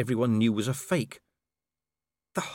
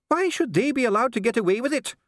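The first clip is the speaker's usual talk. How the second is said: higher, louder, cracking with strain; snapped, voice breaking; 11 semitones higher, 4 dB louder than usual. Acted. Dee snaps back at the king, voice breaking under strain. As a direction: snap it out as the voice gives way. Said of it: "Dee snapped, his voice breaking with the strain".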